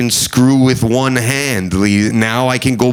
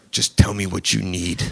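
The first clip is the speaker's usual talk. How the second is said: gruff clerk; 7 semitones lower, 7 dB quieter than usual. Retold or imitated.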